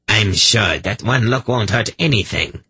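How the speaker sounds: grinning. A narrator's reading. Sorchak brushing off Zadi's warning, grinning. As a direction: say it through a smug grin. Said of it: "Sorchak grinned".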